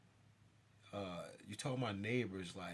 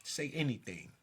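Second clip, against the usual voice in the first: retold confrontation; 4 dB louder than usual. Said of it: "I'm like".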